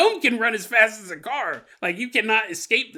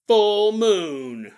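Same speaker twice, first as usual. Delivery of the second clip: excited; 3 semitones higher, 7 dB louder than usual. Retold or imitated. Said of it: "And they're like".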